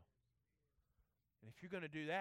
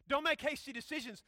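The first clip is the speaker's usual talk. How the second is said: loud, higher preaching emphasis; forceful repeat; 7 semitones higher, 9 dB louder than usual. Real, not acted. Preacher driving the rule home to students, forceful repeat. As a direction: hit it hard as a command.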